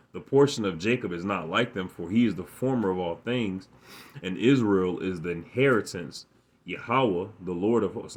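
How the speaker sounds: emphatic scripture recitation; scripture reading. Real, not acted. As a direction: read the verse out with punched key words. Reads scripture aloud.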